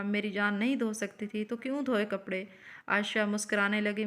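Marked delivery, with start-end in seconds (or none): 0.0-2.4 lightly tender husband's concern; tenderly. Acted. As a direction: ask her gently, with affection. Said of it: "شوہر پیار سے بولا". (پیار بھرا نرم لہجہ)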